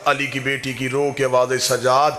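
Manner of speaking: mournful preaching, telling Zainab's story to mourners; majlis recital. Acted. Zakir recounting Karbala grief to mourners, mournful preaching.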